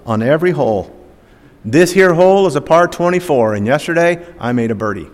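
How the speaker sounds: a light hillbilly Southern accent, lightly voiced; Jethro hillbilly accent. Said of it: "he says in that thick accent".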